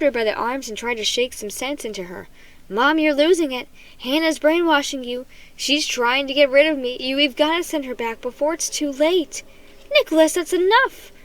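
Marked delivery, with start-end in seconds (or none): 2.7-9.4 panicked pleading. Acted. Boy pleading, panicked with mother. 9.9-11.1 stern scolding. Acted. Mother scolding son.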